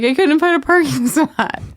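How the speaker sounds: high-pitched, exaggerated wail with a laugh; mock bawling. Late worker bawling to colleagues at a meeting, mock crying. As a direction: imitate yourself blubbering over something trivial. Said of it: "I'm crying and saying this is the reason".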